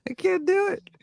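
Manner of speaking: very high laughing squeal. Real, not acted. Cracking up at own failed accent, laughing.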